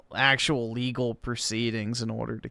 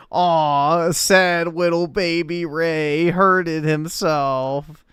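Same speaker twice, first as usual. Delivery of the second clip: put-on higher, slow sing-song pity for a baby; mocking baby talk; 4 semitones higher, 4 dB louder, slower than usual. Reading a troll comment aloud, mocking baby talk. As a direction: coo it like pitying a hurt toddler.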